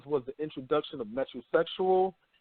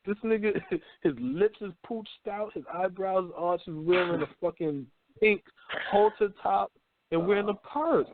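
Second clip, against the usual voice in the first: exasperated rant; 4 semitones higher than usual. Retold or imitated. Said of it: "And I'm like".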